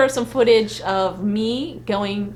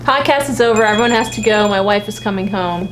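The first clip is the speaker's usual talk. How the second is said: loud mock panic; mock alarm; 4 dB louder than usual. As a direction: sound the alarm, half-joking. Mock urgent ending.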